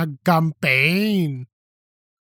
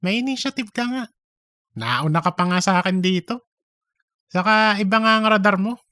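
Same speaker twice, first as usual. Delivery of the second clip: fast, higher teasing voice; mock agreement; 4 semitones higher, much faster than usual. Cheese mimicking Darren's praise, fast and teasing. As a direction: mimic his praise playfully.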